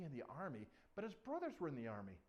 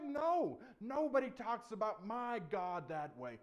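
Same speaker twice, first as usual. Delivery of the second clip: high, loud, firm protest; acted indignant outburst; getting mad; 6 semitones higher, 8 dB louder, slower than usual. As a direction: stand up for God, stretching it out. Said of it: "he's getting mad".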